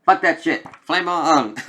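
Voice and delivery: loud, high, fierce battle cry; defiant shout. Retold or imitated. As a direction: shout it like a fighter igniting. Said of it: "Clea's like".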